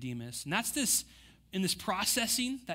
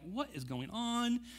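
slow, higher-pitched mock disbelief; sarcastic; 5 semitones higher, 5 dB quieter, slower than usual. Pharisees scoffing at the crowd's belief, sarcastic. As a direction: draw it out with sarcastic incredulity. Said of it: "They're acting sarcastically".

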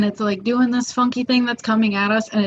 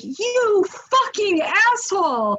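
angry friend; 10 semitones higher than usual. Retold or imitated. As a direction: play the furious rescuer, half laughing. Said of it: "he's like".

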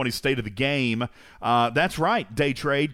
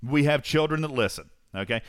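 ordinary delivery

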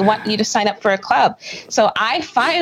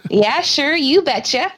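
a playful Minnesota "You betcha" with a higher pitch; Minnesota accent; 5 semitones higher than usual. Pretend. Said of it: "I almost snarfed up my water".

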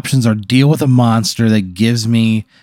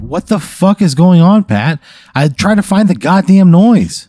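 frustrated yell; 6 semitones higher than usual. Acted. Player yelling at strange noise.

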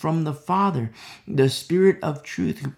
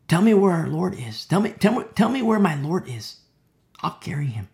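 insistent pleading; 3 semitones higher, 3 dB louder than usual. Acted. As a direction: press the demand as Mary would. Mary pleads with supposed gardener.

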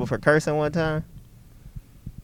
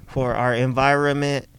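muffled behind a mask; through a face mask. Real, not acted. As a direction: talk through a cloth mask. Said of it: "we are speaking through masks that we are wearing".

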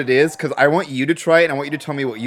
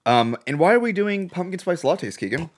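talking around ice in mouth; words blurred by an ice cube; 4 semitones higher than usual. Real, not acted. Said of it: "I got a piece of ice in my mouth".

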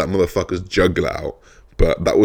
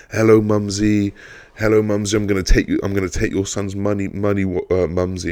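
mock taunting shout; 3 semitones higher than usual. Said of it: "shouting down the phone".

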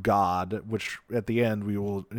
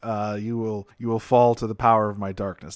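hammy cartoon villain. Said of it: "very like".

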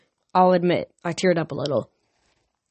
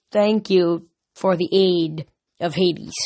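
slow, grudging formal thanks; halting, reluctant gratitude; slower than usual. Acted. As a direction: force the words out slowly. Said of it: "like the words were hard to get out".

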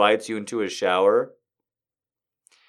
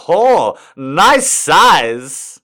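put-on Swedish accent; 6 dB louder, much slower than usual. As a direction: do a thick country Swedish accent. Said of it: "in an incredibly thick country Swedish accent".

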